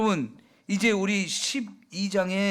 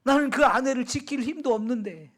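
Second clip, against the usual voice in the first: regretful lament; 3 semitones higher than usual. Acted. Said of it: "땅을 치면서 후회를 했을까요".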